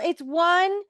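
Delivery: slow, spelled out number by number; slow, spelled-out code. Acted. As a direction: spell out the code slowly for her. Telling Estelle the alarm code.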